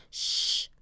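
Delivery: unvoiced hush; shushing. Jack hushes Annie while he thinks. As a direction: hush her quickly. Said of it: "he said".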